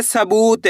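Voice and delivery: सबूत with the ू held long; teacher's demo of सबूत, long "boo"; drawn-out long vowel. Shown as a demonstration. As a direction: stretch the "oo" in सबूत. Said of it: "बड़ू की मात्रा को खींच के पढ़ा जाता है".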